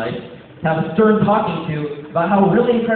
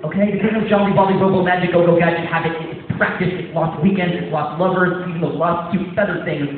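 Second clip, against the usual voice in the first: hype coach shout; 2 semitones higher, 4 dB louder than usual. Acted.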